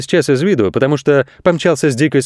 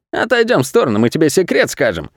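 higher, coaxing crook voice; sly crooks; 4 semitones higher than usual. Acted. Crooks coaxing the goat, sly higher voice. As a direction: lure him in with a secret. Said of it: "жулики сказали".

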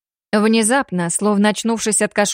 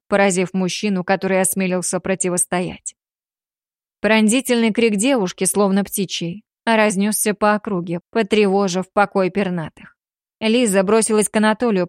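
ordinary talk

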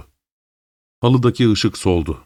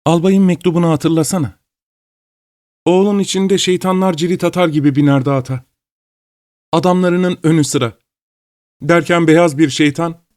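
higher-pitched character voice for a gossiping lady; high-pitched, lightly acted reminiscence; animated old lady reminiscing; 7 semitones higher than usual. A narrator's reading. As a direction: recall it in a raised storybook voice.

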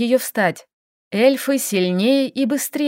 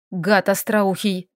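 snapping insult; slower than usual. Acted. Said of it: "огрызнулась Лиля".

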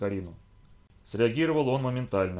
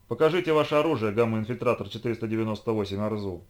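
polite but firm; 3 dB louder than usual. Acted. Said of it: "вежливо, но твёрдо попросила".

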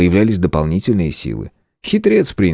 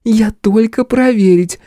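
slow, tipsy giggling voice; drunken giggle; 3 dB louder, slower than usual. Acted. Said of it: "пьяно хихикнула внучка губернатора". (пьяно хихикая)

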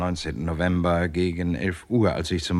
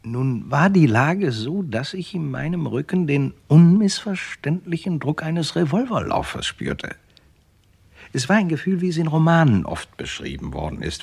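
tense narration; 8 semitones higher, 4 dB louder than usual. Acted. Narrator recalling the gun at his back, tense. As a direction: tell it as if the gun is still at your back.

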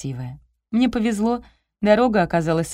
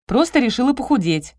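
higher-pitched, firm cut-off; curt retort; 5 semitones higher, 4 dB louder than usual. A narrator's reading. Heroine answering her friend about dieting, curt. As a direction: shut the argument down. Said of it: "отрезала я".

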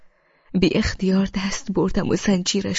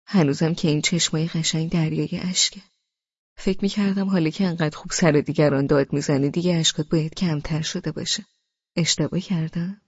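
soft and kind; 3 semitones lower than usual. Acted. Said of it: "نرم و مهربان و آرام گفت".

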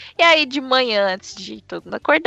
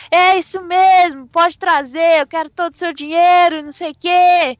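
higher, slightly slowed shouted demand; mock yelling; 5 semitones higher, 4 dB louder than usual. Tiny thumb yells again for all the money, loud and higher. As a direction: yell for the whole house to hear. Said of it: "começa a gritar de novo".

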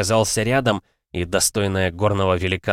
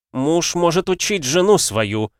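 repulsive voice; 9 semitones higher, 4 dB louder, slower than usual. A narrator's reading. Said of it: "показавшийся до нельзя противным голос".

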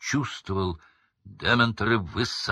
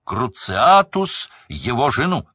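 loud, higher, forced accusation; straining voice; 6 semitones higher, 6 dB louder than usual. A narrator's reading. Crouch straining his voice to reach the jury. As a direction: push the voice to breaking. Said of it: "надрывал голос мистер Крауч".

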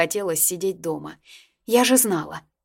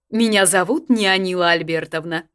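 grande dame; 6 dB louder than usual. A narrator's reading. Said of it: "с непередаваемой интонацией представилась".

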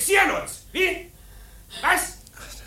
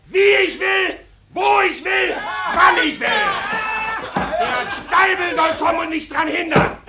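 drohend schreiend. Acted. Betrunkener Bräutigam droht dem Fremden.

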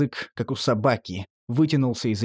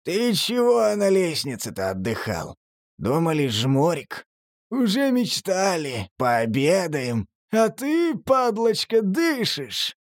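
mocking thug voice; 5 semitones higher, slower than usual. Creature mocks narrator as food.

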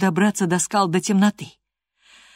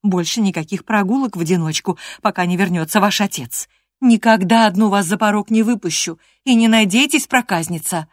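higher and louder, building to a firm scold; stern scolding; 4 semitones higher, 5 dB louder than usual. Acted. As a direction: lay down the law like a strict nanny. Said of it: "напускной суровостью".

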